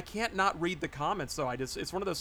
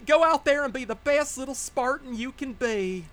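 high, louder redneck woman's twang; redneck woman accent; 8 semitones higher, 5 dB louder than usual. Retold or imitated. Player imitating his game AI cheering on a soldier, redneck woman accent. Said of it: "some redneck woman's like".

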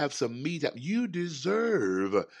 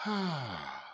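soft long sigh of "ah"; demonstrated sigh of relief; relieved "ah"; 5 dB quieter than usual. Shown as a demonstration. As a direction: let out an easy, soft "ahh". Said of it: "You just need to say".

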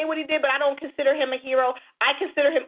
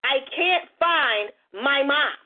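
slow retold child's plea; much slower than usual.

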